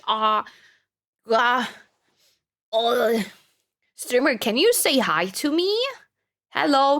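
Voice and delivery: lightly voiced pestering kid; whiny kid chatter. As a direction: beg like a bratty child. Imitating kid chatters' requests.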